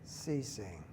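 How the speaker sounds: slow, unhurried meditation leader with long pauses; guided meditation. Real, not acted. Teacher leading a standing group through breathing, calm guided meditation.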